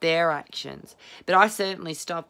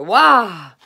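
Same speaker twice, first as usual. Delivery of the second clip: very loud, high shout of release; loud cry; 4 semitones higher, 15 dB louder than usual. Shown as a demonstration. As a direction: blast the frustration out. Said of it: "And then I go".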